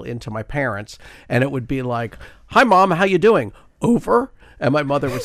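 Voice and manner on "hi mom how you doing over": loud, higher shout down a crackly line; calling over radio. Retold or imitated. Teenage son calling his mother by ham radio, loud and high. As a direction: project it like a bad radio connection.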